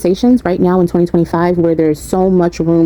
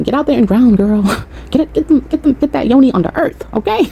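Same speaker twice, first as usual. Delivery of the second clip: excited; 7 semitones higher than usual. Real, not acted. Hyping viewers to ground outdoors.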